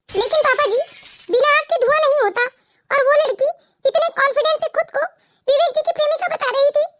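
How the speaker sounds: tearful, insistent protest. Acted. Wife doubting her father-in-law's reassurance, tearful. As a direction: argue back while holding in sobs. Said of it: "तुम इस तरह रो मत".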